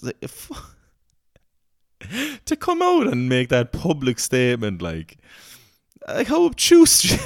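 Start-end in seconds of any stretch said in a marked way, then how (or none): 6.1-7.3 very high, slow exasperated laugh; laughing disbelief. Real, not acted. Amazed at the minister's complaint, laughing disbelief. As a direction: stretch it out, laughing.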